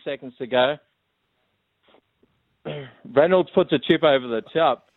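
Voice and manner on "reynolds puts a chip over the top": lightly put-on play-by-play call; mock rugby commentary. Caller pretending to call the grand final, mock commentary. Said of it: "call us the dying stages of the grand final".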